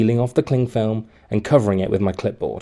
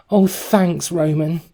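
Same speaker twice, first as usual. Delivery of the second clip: put-on bright, higher cheerful girl voice; cheerful thanks; 7 semitones higher, slower than usual. A narrator's reading. Girl thanking Roman for the donut, cheerful. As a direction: chirp it out gratefully. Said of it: "she cheered".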